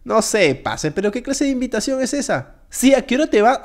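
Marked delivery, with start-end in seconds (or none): 2.9-3.6 affronted echo. Acted. Guest repeats the host's rude question, affronted. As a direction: repeat it back, taken aback.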